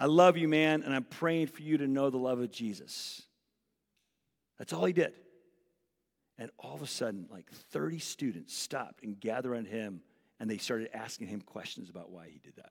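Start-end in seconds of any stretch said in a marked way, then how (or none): 0.0-3.2 really calm, composed delivery. A man answers a heckler with a bullhorn; retelling calm words. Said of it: "really calmly said".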